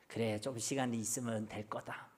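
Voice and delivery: low, soft self-excusing murmur; lenient self-talk. Acted. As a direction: go easy on yourself, voice dropped low. Acting out leniency toward oneself. (낮고 부드럽게 스스로를 너그럽게 달래듯)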